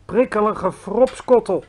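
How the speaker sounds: a slow, gleeful half-shout; mild shout. Acted. Giant holding up his bottle, mild gleeful shout. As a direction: raise it a little, savouring each word. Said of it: "schreeuwde hij".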